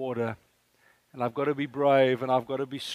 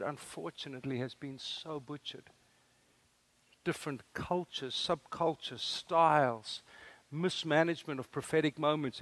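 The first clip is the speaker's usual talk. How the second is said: normal talking voice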